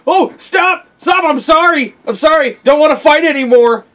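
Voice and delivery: high-pitched mock pleading; Gilgamesh. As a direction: play a boss pretending to surrender. Voicing Gilgamesh begging off the fight.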